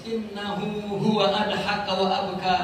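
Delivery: slow, measured Arabic recitation; Quran recitation. Shown as a demonstration. Preacher citing the verse on laughter and tears, slowly recited. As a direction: draw out huwa in chant. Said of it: "Quranic verse recited".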